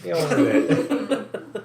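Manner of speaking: slow, laughing exasperation; laughing mock plea. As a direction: drag it out while laughing.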